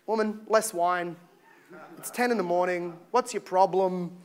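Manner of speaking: dismissive brush-off. Acted. Pilate to his wife about her dream, dismissive. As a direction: wave her off with a quiet, low grumble. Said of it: "he sort of brushed it off like".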